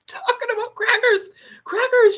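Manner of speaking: high, whispered crackers; mock whisper. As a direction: whisper it slyly. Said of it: "she says".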